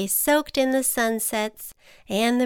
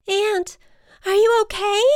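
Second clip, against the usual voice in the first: high, alarmed call; anxious storybook cry; worried butterfly; 11 semitones higher, 5 dB louder than usual. A narrator's reading. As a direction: check on a friend in alarm. Butterfly worries for slipping ant.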